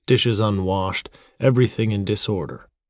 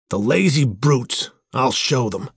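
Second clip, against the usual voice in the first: moderately raised, slow angry exclamation; angry cry; 4 semitones higher than usual. A narrator's reading. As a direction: threaten the dogs with raised pitch. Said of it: "he cried".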